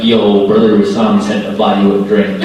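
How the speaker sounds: low-pitched, laid-back imitation of a bro; lightly voiced club bro. Brother passing on a drink at a club, low mock-cool voice.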